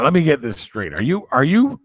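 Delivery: high incredulous question; imitating a baffled supplier; mock disbelief. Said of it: "And he was like".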